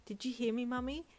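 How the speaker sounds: put-on eager little boy, voice lifted; bubbling with a small boy's glee; excited child. A narrator's reading. Little boy asks his mother excitedly, high and eager. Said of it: "he asked excitedly".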